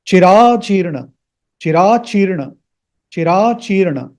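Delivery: Chirachirna with long middle and a sounded final a; careful pronunciation. Shown as a demonstration. Teacher models a mantra word for students, careful pronunciation. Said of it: "please don't pronounce it as".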